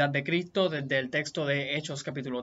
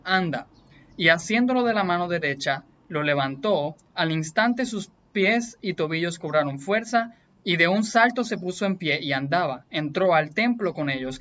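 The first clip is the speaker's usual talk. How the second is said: emphatic, louder Bible reading aloud; scripture reading; 3 dB louder than usual. A narrator's reading. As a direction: read the passage out with firm emphasis. Reads Bible passage aloud.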